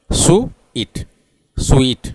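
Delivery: सुईट as "su-it", without the w; two-beat Indian-style सुईट; Indian two-syllable way. Shown as a demonstration. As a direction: break सुईट into su and it. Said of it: "दो syllable है".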